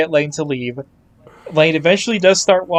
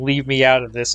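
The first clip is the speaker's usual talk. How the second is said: ordinary talk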